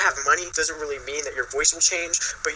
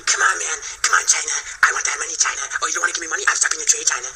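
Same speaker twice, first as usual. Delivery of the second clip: lightly voiced blustering politician; mock presidential demands in a put-on accent; a touch of swaggering presidential parody; Donald Trump; faster than usual. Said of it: "So he's forever just gonna be".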